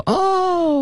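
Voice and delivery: high-pitched mock cheer; long, high "ooh" imitating a thrilled group; crowd's excited "oh". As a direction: act out the friends' delighted oh. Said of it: "然后大家就".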